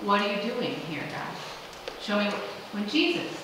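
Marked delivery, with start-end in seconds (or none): 0.0-2.3 quiet asking. Retold or imitated.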